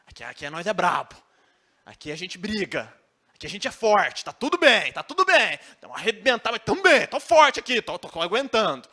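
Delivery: hammed-up tough guy insisting all is well; fake tough guy. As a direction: puff up and pretend to be strong. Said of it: "fortão aqui".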